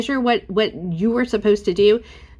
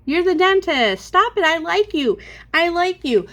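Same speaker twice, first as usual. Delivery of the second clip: exasperated; 9 semitones higher than usual. Real, not acted. Venting at the dentist, high exasperated outburst. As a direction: pitch up in disbelief, then soften.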